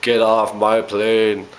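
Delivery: slow, drawn-out movie-hero line; a restrained imitation of a heroic yell; mild mock yell. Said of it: "he yells to Gary Oldman".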